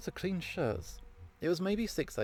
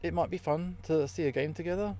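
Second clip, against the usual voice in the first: slightly hesitant, higher-pitched asking; tentative invitation; 4 semitones higher than usual. Acted. Speed dater suggesting a game together, tentative invitation. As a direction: float the idea lightly, pitched up.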